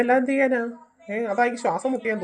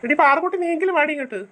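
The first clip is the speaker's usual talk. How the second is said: calling out; 5 semitones higher than usual. Acted. Calling girl over.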